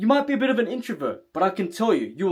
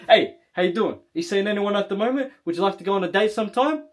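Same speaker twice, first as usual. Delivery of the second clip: easy, assured, quick delivery; confident asking-out; faster than usual. Shown as a demonstration. Coach showing how to ask a girl on a date, confident. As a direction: ask casually, as if sure of a yes. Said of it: "you speak like this".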